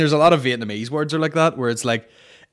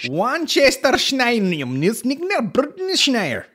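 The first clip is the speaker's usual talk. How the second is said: mock mispronouncing; 10 semitones higher than usual. Joker mangles the sauce name, mock mispronouncing.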